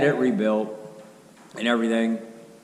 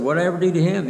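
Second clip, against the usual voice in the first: indignant; 7 semitones higher, 5 dB louder, faster than usual. Retold or imitated. Hurt by friend's refusal.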